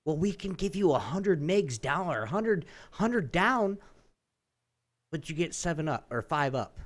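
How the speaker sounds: mock cable rep. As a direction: mimic the rep's sales pitch.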